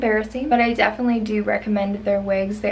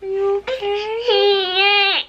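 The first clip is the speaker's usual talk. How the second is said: very slow high cooing; 9 semitones higher, 3 dB louder, much slower than usual. Real, not acted. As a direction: coo it slowly to calm her. Mother comforting crying baby.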